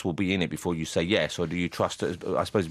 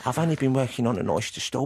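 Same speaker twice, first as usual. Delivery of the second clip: lightly done Victorian Cockney; a hint of a London street girl; Cockney accent; 3 semitones higher than usual. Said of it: "the same sort of accent".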